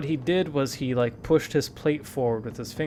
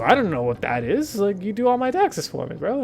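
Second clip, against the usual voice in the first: louder and higher, exasperated pushback at the father; exasperated retort; 8 semitones higher, 7 dB louder than usual. Retold or imitated. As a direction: protest loudly, as if it's obvious. Arguing back at dad.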